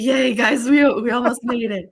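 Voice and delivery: high, loud, strained cracking cheer. Acted. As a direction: let the voice break on the cheer. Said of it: "my voice just now started failing".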